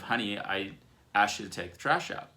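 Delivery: mildly annoyed reminder. Acted. Wife repeats the trash request to husband, mildly annoyed. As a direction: play a touch of irritation. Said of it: "you come to me with this annoyed language".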